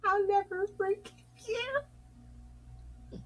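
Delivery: mock grudge. Mock grudge, soft high.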